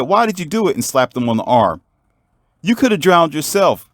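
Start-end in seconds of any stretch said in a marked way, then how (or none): 0.0-0.8 high-voiced reproach; upset scolding. Sister slaps brother on the arm, high upset scolding. 2.6-3.9 high-voiced reproach; upset scolding. Sister to brother who nearly drowned, high upset scolding.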